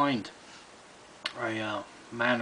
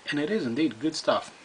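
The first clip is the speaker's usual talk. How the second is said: words around pipe stem; talking with pipe in mouth; 3 semitones higher than usual. Real, not acted. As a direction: lips closed on stem. Seen 5: Pipe stem held at lips while speaking, hand supporting the bowl.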